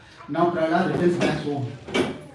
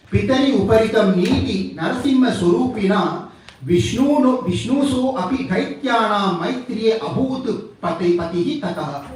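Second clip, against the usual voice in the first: measured Sanskrit verse, phrase by phrase; scripture recitation; 4 semitones higher than usual. Real, not acted. Teacher quoting the only sloka from Vishnu Purana, reciting. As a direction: recite the sloka with firm emphasis.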